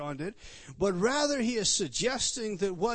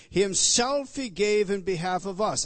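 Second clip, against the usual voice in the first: "himself" fronted and hit hard, louder; stress on himself; 3 semitones higher, 8 dB louder than usual. Shown as a demonstration. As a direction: punch "himself", then carry on through the phrase. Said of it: "for sake of emphasis".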